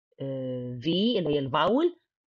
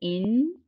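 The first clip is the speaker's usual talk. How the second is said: in held alone, higher pitched; isolated first syllable; 4 semitones higher than usual. Shown as a demonstration. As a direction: set in apart as its own beat. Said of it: "أدي أول مقطع". (in كمقطع منفصل)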